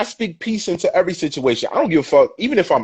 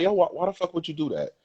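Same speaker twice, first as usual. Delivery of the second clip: a quick, softer, level-headed "why the fuck would you do that"; calm manner; 3 semitones higher, 8 dB quieter, faster than usual. Shown as a demonstration. To a partner after a fight, asking calmly, softly. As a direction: keep it calm and quiet even though the words are harsh. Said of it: "in a calm manner".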